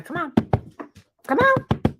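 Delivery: high sing-song coaxing; coaxing a shy dog out, high-pitched. Real, not acted. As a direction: call the dog out sweetly, high.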